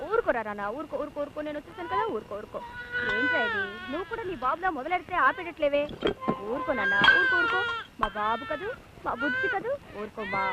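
put-on very soft crooning to a crying baby; soft hushing. Mother hushes her crying baby, soft crooning. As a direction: hush the baby gently, almost under the breath.

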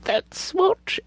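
thrilled exclamation; excited rise. Real, not acted. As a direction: say it again with rising delight. Gasping over a lovely swatch.

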